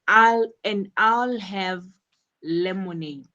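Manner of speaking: "I'll" punched, "lemonade" set apart and falling; emphasize "I'll" and "lemonade" to mark the choice; firm "I'll", pause before a falling "lemonade"; stress on I'LL and LEMONADE. Shown as a demonstration. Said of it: "how Anna stresses "I'll" and lemonade".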